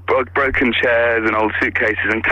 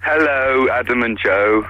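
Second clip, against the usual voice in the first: drawn-out greeting with a tired edge; a tiny bit sarcastic; 2 semitones lower, slower than usual. Real, not acted. Tired caller greeting the radio hosts, a tiny bit sarcastic. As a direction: greet them wearily, faintly sarcastic-sounding. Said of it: "you sound a tiny bit sarcastic".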